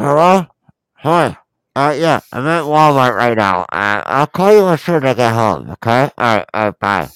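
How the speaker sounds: voice like talking into a pillow. Showing how a friend sounded on the phone: imitating Boogie on the phone, muffled. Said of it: "this is how he sounds like".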